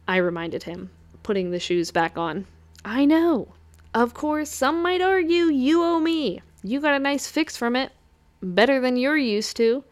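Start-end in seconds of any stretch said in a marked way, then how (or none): 2.8-9.8 higher, smug teasing imp; Hugh the imp, teasing. Acted. Imp teasing the succubus about her fix, in a higher smug voice. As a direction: needle her with a sly high grin.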